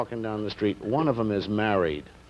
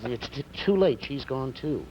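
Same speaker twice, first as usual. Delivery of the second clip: high, urgent comic stammer; bad stutter; 7 semitones higher than usual. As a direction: keep looping on the same words, pitch up. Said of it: "the guy starts again".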